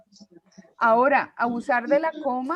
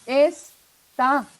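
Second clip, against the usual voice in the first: "Está" with the weight on TÁ, es-TÁ; stress on the last syllable; 5 dB louder than usual. Shown as a demonstration. Teacher modelling the word for a student, stress on TÁ. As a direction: land hard on the final syllable of "Está". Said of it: "Acento en la última".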